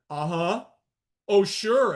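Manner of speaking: sarcastic oh sure. Acted. Sarcastic reply to doubters.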